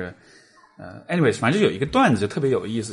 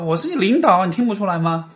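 put-on Teochew accent; 7 semitones higher, 4 dB louder than usual. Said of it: "而且就是潮汕口音".

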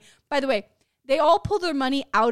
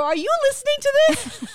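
outraged aside; 13 semitones higher, 5 dB louder than usual. Retold or imitated. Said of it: "I go".

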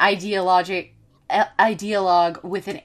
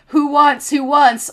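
higher, louder call to the crowd; rowdy host; 6 semitones higher, 6 dB louder than usual. Acted. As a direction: hand out beers like a rowdy party host. Bernie handing out beer.

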